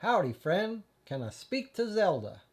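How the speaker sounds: a fake Texas cowboy greeting; Texas accent. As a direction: caller fakes a Texas accent to the man on the hotel phone. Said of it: "I put on my best Texas accent".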